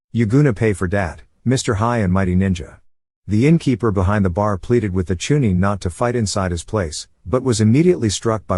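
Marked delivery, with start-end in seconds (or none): 0.1-2.8 put-on slurred drunk threat. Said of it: "slurring said".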